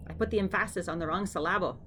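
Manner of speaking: "emphasis" and "syllable" stressed on their middle syllables; Austin Powers. Retold or imitated. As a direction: joke misstress: em-PHA-sis, syl-LAH-ble. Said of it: "like Austin Powers says".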